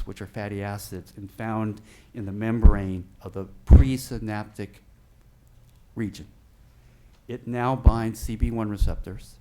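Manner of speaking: echoing voice in a big room; booming echo on the mic; big hall echo. Real, not acted. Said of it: "I'm sorry I'm echoing".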